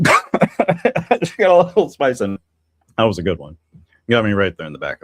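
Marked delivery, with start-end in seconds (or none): 0.0-2.4 laughing through a sudden spice burn, higher and louder; spicy cough laugh. Real, not acted. Streamer hit by spice in her coffee, laughing and spluttering.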